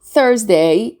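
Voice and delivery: "Thursday" with the S said as Z. Shown as a demonstration. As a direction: say Thursday slowly as THURZ-day. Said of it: "we pronounce it as a Z sound".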